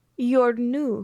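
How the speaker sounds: put-on high Russian accent. Recounting a scene, quoting Summer Glau's line in a bad Russian accent. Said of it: "the second bad Russian accent I've done today".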